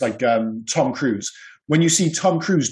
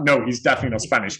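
usual speaking voice

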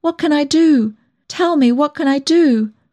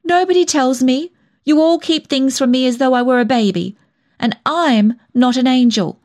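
high, upset self-reproach; near tears; 7 semitones higher than usual. A narrator's reading. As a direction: protest and berate yourself, close to crying. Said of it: "I was near to tears".

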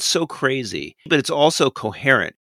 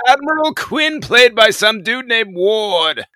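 high squeal; 11 semitones higher, 7 dB louder, slower than usual. Real, not acted. Playful squeal about forgotten actor.

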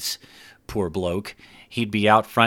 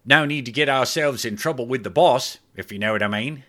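a hint of a sly chuckle, higher; chuckling Clive; 4 semitones higher than usual. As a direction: wink while saying it. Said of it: "He then chuckled a bit".

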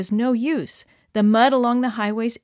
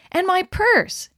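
high joyful lift; light up at the find; delighted find; 10 semitones higher, 4 dB louder, slower than usual. A narrator's reading. Missus Grant digging in the mud, delighted exclaim. Finding lost purse happily.

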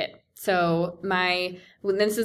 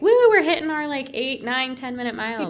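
mock exhilaration; 5 semitones higher than usual. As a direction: play the carefree speedy runner, hammed up. Mocks breezy fast-mile runners.

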